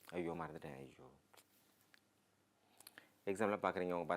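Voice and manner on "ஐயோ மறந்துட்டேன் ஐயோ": high, sudden cry of dismay, fading away; a stricken oh no, I forgot. Shown as a demonstration. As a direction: gasp it out as if it just hit you. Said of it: "என்ன செய்யணும் சொல்றாரு".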